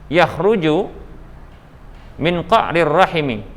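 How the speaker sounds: muffled behind a face mask; through a face mask. Real, not acted. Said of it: "Ustadz pakai masker, dengar jelas?".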